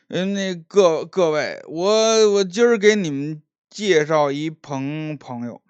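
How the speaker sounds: tipsy, halting show-off introduction; drunk young master. Acted. Drunk Liu boasting to the tavern crowd, halting. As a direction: slur and stumble like a boastful drunk.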